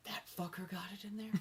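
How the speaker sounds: disbelieving hushed whisper. Retold or imitated. Incredulous aside about bad hire.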